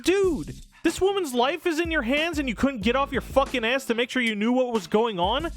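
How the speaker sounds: ordinary delivery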